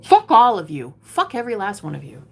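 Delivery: loud first burst, then easing off; angry cursing. Real, not acted. Streamer cursing those who made her homeless, angry. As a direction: curse them all out, hitting the first word hard.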